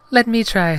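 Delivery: high, loud falsetto heroine; volunteer in put-on falsetto; Padme. Heroine takes over taste test, high loud falsetto. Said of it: "said Padme".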